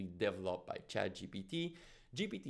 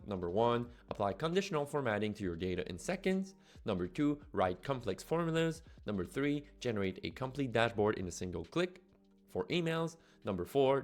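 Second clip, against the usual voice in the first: upbeat, louder promo voiceover; ad read; 4 dB louder than usual. Acted. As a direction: read it like a punchy product ad. Scripted promo read over music.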